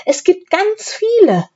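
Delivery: breezy, happy insistence; lightly voiced jolly pastor; cheerful. A narrator's reading. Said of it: "sagt der Pastor munter".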